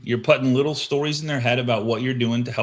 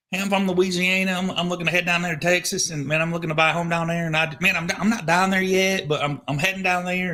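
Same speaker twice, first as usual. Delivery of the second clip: lightly voiced Southern lady, pitched up; sweet Southern voice; 6 semitones higher than usual. Imitating a Southern caller on the phone, light Southern lilt. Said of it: "sweet Southern voice".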